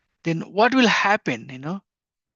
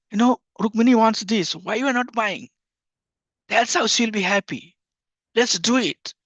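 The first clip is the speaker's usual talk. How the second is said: higher-pitched, insistent pleading; mother arguing; 5 semitones higher than usual. Retold or imitated. Mother fights with husband for her child, insistent. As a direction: act out pressing a reluctant husband. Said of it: "She'll fight with husband".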